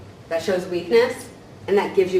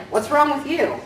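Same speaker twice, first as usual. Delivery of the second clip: mock snappy retort; 6 semitones higher, 3 dB louder than usual. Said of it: "They're like".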